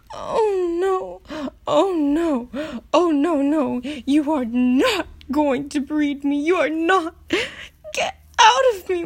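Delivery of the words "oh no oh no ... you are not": firm refusal. Acted.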